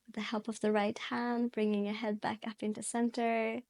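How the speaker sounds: calm yoga instruction with long pauses; guided meditation. Real, not acted. Yoga teacher guiding students into their breath, calm guided meditation. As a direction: guide gently, leaving space to breathe between phrases.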